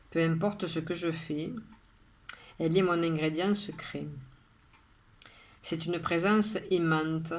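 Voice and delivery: measured poem reading with long pauses after each line; poem recitation. Acted. Recites her own poem.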